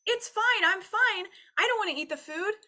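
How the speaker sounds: high, loud chirpy dismissal; breezy mock-easy self. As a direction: brush the craving off in a bright squeal. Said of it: "hear a thought and be like".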